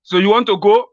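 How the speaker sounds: high, excited muddled questions; confused old man. Pretend. Confused Buhari questioning his aide about the Imam. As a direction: lift the pitch, forgetful and eager.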